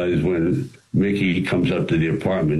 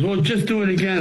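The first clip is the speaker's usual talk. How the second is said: much higher, offhand sound man; mock sound man; 12 semitones higher, faster than usual. Sound man asking for another take, casual. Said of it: "He goes".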